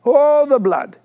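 mock-fervent "oh, the blood", hammed up a little; fervent belief. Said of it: "We can believe like this".

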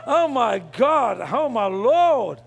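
slow, drawn-out "oh my"; excited exclamation. Real, not acted. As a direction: stretch each phrase, overcome with excitement. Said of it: "I'm getting excited here".

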